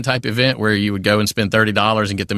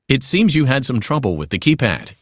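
lightly played infomercial presenter; 2 semitones higher than usual. Shown as a demonstration. Voice actor recreating a game role in own voice, light infomercial style. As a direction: own voice with a touch of sales pitch. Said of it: "but a little more infomercial".

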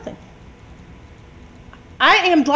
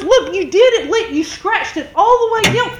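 retold accusation; 4 semitones higher than usual. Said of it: "She goes".

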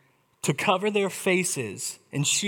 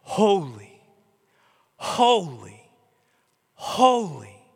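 solemn, separated proclamations; seraphim calling out; 4 dB louder, much slower than usual. Acted. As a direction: call each word out, letting it fall away. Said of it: "over and over and over are going".

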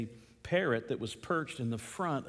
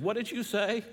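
acted indignant question, pitched much higher; shocked outrage; 8 semitones higher than usual. Woman confronting a rude parrot, shocked and indignant. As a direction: demand it in disbelief, voice jumping up. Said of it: "she was shocked and outraged".

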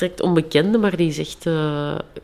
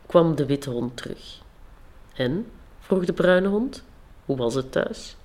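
even, unhurried storytelling read; story narration; 3 dB quieter than usual. Acted. Author reading her fairy tale to the listeners, calm storytelling.

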